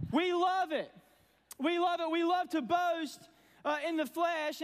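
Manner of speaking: rising fervour. Real, not acted. Preacher building on boasting.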